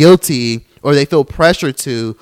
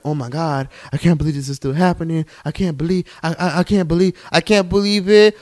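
mock disbelief; 3 semitones higher than usual. Podcaster imitating Austin and Catherine's surprise, mock disbelief. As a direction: stammer it like someone freshly shocked.

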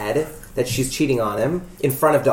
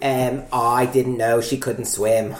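put-on Ted Kennedy accent; 3 semitones lower, slower than usual. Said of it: "That was Ted Kennedy".

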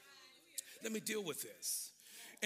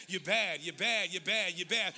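playful call; 2 semitones higher, 8 dB louder than usual. Shown as a demonstration. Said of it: "just look at him and say".

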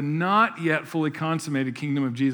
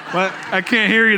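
pretending not to hear; 4 semitones higher, 6 dB louder than usual. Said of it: "The mic's on".

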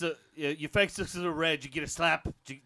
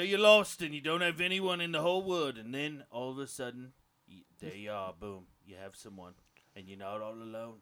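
fading sentimental; 4 semitones lower than usual. Acted. Fake Aussie getting sentimental.

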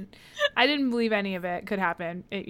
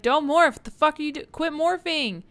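high, louder retold panic; mock screaming; 7 semitones higher, 4 dB louder than usual. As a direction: scream it at a friend, half in earnest. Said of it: "everyone starts thought speech screaming to Marco".

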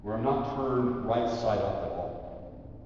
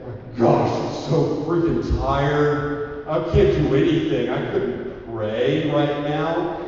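whiny flesh; 4 dB louder than usual. Acted. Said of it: "your flesh is gonna say".

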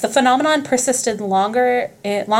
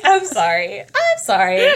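nervous laughing apology; slower than usual. Retold or imitated. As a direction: back away giggling. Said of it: "They're like".

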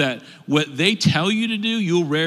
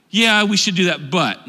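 mock yeah-but excuse; 3 semitones higher, 5 dB louder than usual. Mocking yeah-but people.

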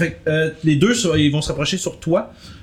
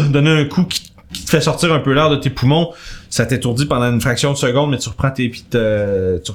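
description d'ambiance posée, un peu dramatique; narration de maître du jeu. A narrator's reading. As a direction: poser la scène pour les joueurs. GM narrates the combat. (le MJ décrit l'odeur de mort aux joueurs, ton de narrateur)

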